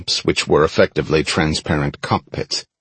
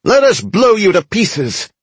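high-pitched squeaky creature taunt; squeaky goblin voice; 13 semitones higher than usual. A narrator's reading. Goblin threatens to blast the soldiers, squeaky high voice. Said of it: "a squeaky voice said".

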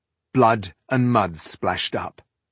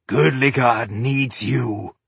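urging; slower than usual. Acted. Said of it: "he urged her".

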